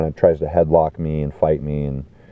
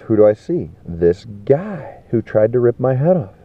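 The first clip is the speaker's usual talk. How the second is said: ordinary delivery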